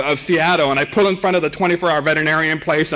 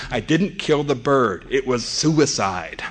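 deadpan; 3 semitones lower, 3 dB quieter, slower than usual. Acted. Comedian's deadpan defense of himself.

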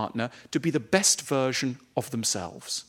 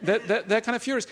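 laughing; 7 semitones higher than usual. Real, not acted. Laughing while describing anger.

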